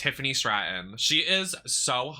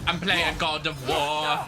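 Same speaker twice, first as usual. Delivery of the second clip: Alba Fire voice; 4 semitones higher, slower than usual. Retold or imitated. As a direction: keep the hype voice going. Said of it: "she talks like this guy".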